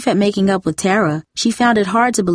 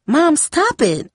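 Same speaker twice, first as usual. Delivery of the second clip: a sharp, higher snap, slow and firm; snapping; 9 semitones higher, much slower than usual. A narrator's reading. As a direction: cut her off sharply. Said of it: "Darcy snapped".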